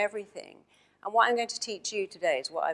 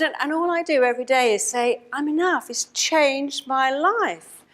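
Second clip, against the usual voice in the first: higher and louder, slowed for effect; excited, proud report; 6 semitones higher, 4 dB louder than usual. Retold or imitated. The former client tells his therapist his news, elated. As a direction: glow with pride at every change.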